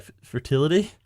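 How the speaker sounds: stuttered, high, puzzled fertility; confused stutter. Shown as a demonstration. Director demoing McCluck's confused fertility line. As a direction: stumble on the F, then ask it puzzled. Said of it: "I want it to be like".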